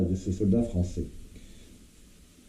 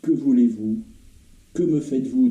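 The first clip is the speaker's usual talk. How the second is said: raised, agitated questioning; alarmed demands; 3 semitones higher than usual. Acted. Wounded soldier questioning strangers around him, alarmed. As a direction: demand answers from unseen captors, pitch up.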